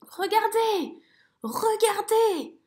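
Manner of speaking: cri aigu puis souffle émerveillé; s'émerveiller de tout. A narrator's reading. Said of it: "s'écrie Zigomar". (merle émerveillé)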